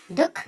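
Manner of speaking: দুঃখ split as "duk-kho" with a short catch; half-length visarga. Shown as a demonstration. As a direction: cut দুঃখ briefly at the visarga. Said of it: "এখানে বিসর্গটা অর্ধমাত্রায় উচ্চারণ হচ্ছে".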